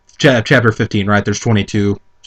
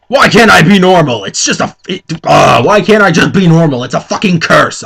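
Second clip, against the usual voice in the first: hammed-up wail, a bit louder and higher; mock shout; 5 semitones higher, 3 dB louder than usual. A narrator's reading. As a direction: whine like a tragic heroine. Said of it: "I shouted".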